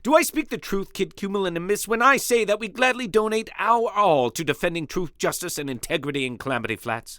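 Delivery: grandstanding hero. Acted. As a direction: orate like a noble champion.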